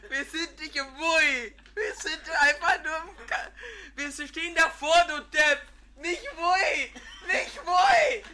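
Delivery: hysterical laugh. Real, not acted. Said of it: "Jetzt hör auf zu lachen".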